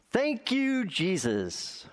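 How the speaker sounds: put-on high, sing-song old lady's thank you; mock old woman praising Jesus; old woman's thanks. Old woman's daily porch prayer.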